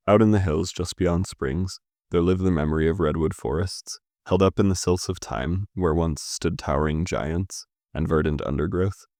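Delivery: measured, even recital of a stanza; poem reading. Acted. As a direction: read the lines so the rhythm carries. Rereads the stanza aloud.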